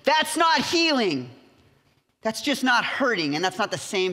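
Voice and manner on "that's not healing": not lifted high and drawn out; slow, rising emphasis on not; stress on not. Real, not acted. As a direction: lean hard on the word not. Preacher stresses the key point.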